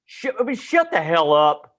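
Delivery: mock teacher snap. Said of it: "he was just".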